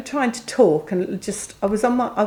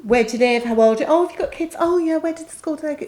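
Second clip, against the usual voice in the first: chatty small talk; 5 semitones higher, faster than usual. Retold or imitated. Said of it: "all sorts of nice things".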